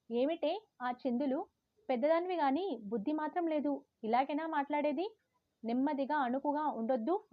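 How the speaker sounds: old granny telling off, lightly voiced; grandmother scolding. Grandmother scolding the sulking granddaughter, lightly voiced. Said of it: "అంటూ కొబ్బడసాగింది".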